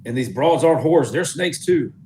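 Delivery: high, swooping mock-alarmed yell; yelling back. Player's character warns ally the women are snakes, yelling back. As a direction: keep hollering the warning in character. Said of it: "I'd yell back at Dieter".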